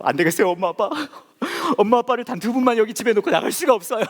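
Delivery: high, hammed-up sugary kid voice; mock sweet child. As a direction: play the too-good child, squeaky high. (과장된 착한 아이 목소리)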